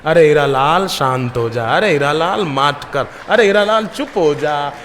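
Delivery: telling his own angry mind to hush; scolding himself. Retold or imitated. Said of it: "मैं अपने मन को ही कह रहा हूँ".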